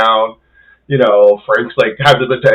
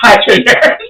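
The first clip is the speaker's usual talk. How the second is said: mock cheery; 10 semitones higher, 5 dB louder than usual. Mock greeting to trainer.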